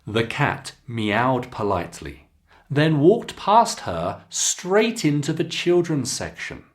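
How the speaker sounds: clear, expressive teacher read-aloud; careful storybook reading for students; model reading aloud. Shown as a demonstration. Teacher reads model passage again.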